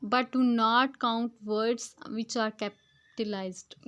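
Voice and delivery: slow, word-by-word reading of the English text; slow textbook reading. Shown as a demonstration. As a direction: read each word out carefully to the class. Reads English passage aloud slowly. (धीमी गति से पाठ पढ़ना)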